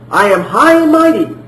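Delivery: puffed-up, boastful claim of greatness; mock haughty. Preacher mocking a proud claim Jesus never made, boastful. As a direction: say it like someone full of himself. Contrast take, haughty version.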